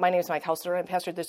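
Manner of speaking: said as fast as possible. Recalling a pastor at the door giving his introduction, retelling a rushed spiel. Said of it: "as fast as he could".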